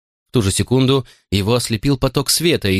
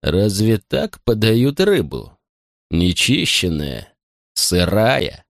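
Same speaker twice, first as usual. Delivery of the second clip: contemptuous; much slower than usual. Acted. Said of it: "презрительно фыркнул".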